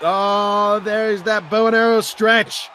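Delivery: normal talking voice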